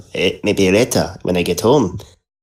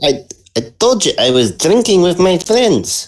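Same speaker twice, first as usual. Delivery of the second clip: mock French accent; 9 semitones higher than usual. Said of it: "doing the Hellrangers French accent".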